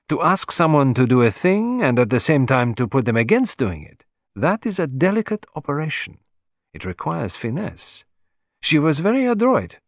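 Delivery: a hint of a grand little Frenchman summoning his servant; Poirot calling valet. Poirot boasting to George.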